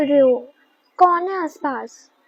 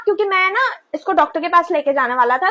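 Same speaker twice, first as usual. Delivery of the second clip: usual speaking voice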